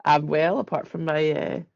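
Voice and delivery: hoarse, croaky voice from a sore throat. Real, not acted. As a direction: speak through a real croak. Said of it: "croaky voice".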